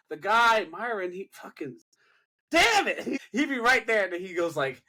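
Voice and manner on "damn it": mock high-pitched exclamation; imitated outburst. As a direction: imitate his sudden burst, pitched way up. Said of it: "You had to say it like that".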